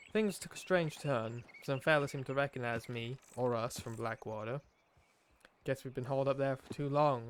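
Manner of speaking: lightly put-on outlaw accent for a journal; Arthur's put-on accent. Player reading Arthur's journal aloud, put-on accent. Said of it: "doing this accent".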